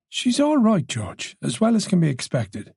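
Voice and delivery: unhesitating, easy reassurance; mildly relieved, at ease. A narrator's reading. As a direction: answer readily with a touch of relief. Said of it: "Moran's voice was easy, no hesitation".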